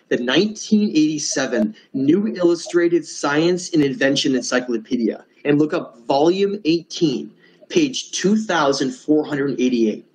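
measured, deliberate reading of a reference; said slowly. Real, not acted. Presenter giving people the reference to look up, said slowly. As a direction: spell out the citation at an unhurried pace. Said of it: "I'm gonna say this slowly".

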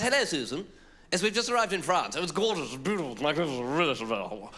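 imitated Englishwoman chatting on her mobile; put-on woman's voice, starting high and settling; woman on phone. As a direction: mimic a gushing phone call. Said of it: "heard this woman answer and just go".

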